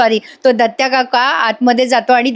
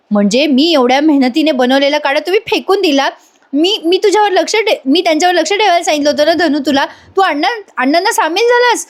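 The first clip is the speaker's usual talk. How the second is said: a daughter-in-law's pitched-up hurt scolding; higher, faster accusation; 5 semitones higher than usual. Acted. Daughter-in-law scolds Dhanu over the thrown-out kadha, higher and faster. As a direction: raise it high and rush the blame.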